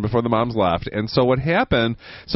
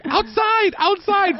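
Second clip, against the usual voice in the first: very high-pitched pet command; urging a dog; slower than usual. Retold or imitated.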